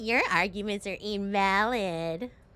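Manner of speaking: low, slow whiny drawl, dragged out long. Imitating how another player argues, whiny voice imitation. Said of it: "why does his voice sound so whiny? He's like".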